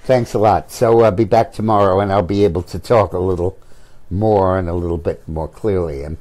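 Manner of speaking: talking with swollen tongue; lisp. Real, not acted. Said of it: "I have a lisp because my tongue is swollen".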